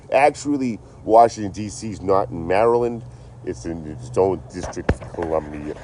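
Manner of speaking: lightly voiced pedantic commenter; mock know-it-all commenter. Mocking the viewer who corrects his geography, lightly pedantic. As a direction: correct him like a smug viewer. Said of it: "I knew one of you fucks".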